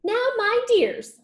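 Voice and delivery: high, slow, fond mother rabbit. Acted. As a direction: call the little ones sweetly. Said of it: "said old Missus Rabbit".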